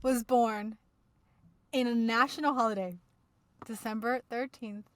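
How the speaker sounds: grand mock introduction; announcer voice. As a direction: hype up the star like an emcee. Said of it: "do it in accent".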